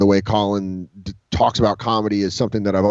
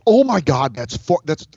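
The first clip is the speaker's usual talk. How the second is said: starstruck gasp; 5 semitones higher than usual. Retold or imitated. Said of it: "I was like".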